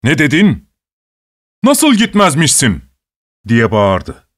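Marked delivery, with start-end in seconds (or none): 0.0-2.8 higher, outraged disbelief; a guard yelling at a defiant prisoner, stunned and angry; astonished angry shout. A narrator's reading. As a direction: yell it in shocked anger. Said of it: "şaşkınlık ve öfkeyle ... diye bağırdı".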